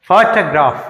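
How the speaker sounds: ఫోటోగ్రాఫ్ with a strong ఫో, weak remaining syllables; stress on first syllable. Shown as a demonstration. Teacher modelling for students, first syllable of ఫోటోగ్రాఫ్ stressed. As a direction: punch the opening ఫో of ఫోటోగ్రాఫ్. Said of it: "పిహెచ్ఓకి ఎక్కువ stress ఉంటది".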